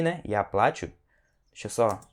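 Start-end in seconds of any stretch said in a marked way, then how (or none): 0.2-0.9 плачу as PLA-chu, weight up front; stress on the A. Shown as a demonstration. Teacher repeats the form being learned, stressed A in плачу. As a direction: put the beat on A in плачу. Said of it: "que é o que a gente tá querendo aprender".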